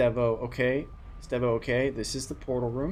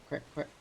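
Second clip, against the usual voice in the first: quacking; 4 semitones higher, 7 dB quieter than usual. Shown as a demonstration. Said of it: "a goose sounds like quack".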